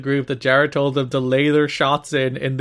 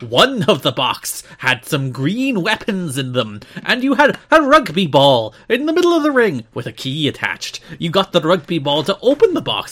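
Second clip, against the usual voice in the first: put-on Irish accent; 7 semitones higher, 5 dB louder than usual. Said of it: "Please say it in your thickest accent possible".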